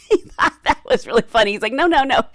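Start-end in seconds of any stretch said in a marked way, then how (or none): 1.7-2.2 loud, higher, amused protest; animated quoted denial; emphatic denial. Retold or imitated. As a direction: wave the idea away with quick repeats. Acted denial of vampire idea.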